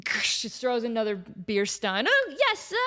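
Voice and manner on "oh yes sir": a lightly voiced timid yes sir, higher; meek intern. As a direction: squeak it out and scurry off. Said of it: "he scurries away".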